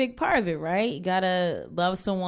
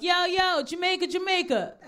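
high, hooting street holler; mock catcall from guys on the street, much higher; 9 semitones higher than usual. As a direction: call out to a passing woman, mock-friendly. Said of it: "So they'll be like".

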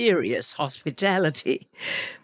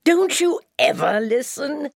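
bellowing; 11 semitones higher than usual. Acted. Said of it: "bellowed the bear".

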